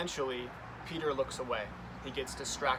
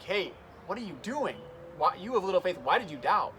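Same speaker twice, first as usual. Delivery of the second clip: higher and louder, a mean history teacher scolding; imitating a yelling scold; 5 semitones higher, 4 dB louder than usual. Jesus scolding doubting Peter in the boat, mock angry yell. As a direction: bark it out like a harsh teacher. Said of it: "is yelling at Peter".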